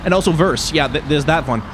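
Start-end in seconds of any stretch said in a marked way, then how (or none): 0.3-0.7 "verse" said with a V for the W of worse; Danish-accented "verse", starting on a V. Shown as a demonstration. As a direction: turn the W into V: "verse". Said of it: "mix up the V's and W's".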